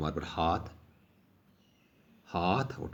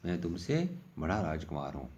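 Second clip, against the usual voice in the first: mock indignant prince; 3 semitones higher than usual. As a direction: mimic a bratty prince snatching a prize. Princes quarrel over the knife.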